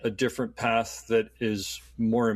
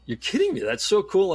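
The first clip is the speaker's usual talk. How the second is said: much higher, gushing delight; starstruck excitement; 8 semitones higher than usual. Retold or imitated. Passenger to Olympic medalist on the plane, high excited gushing. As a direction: gush like a starstruck fan.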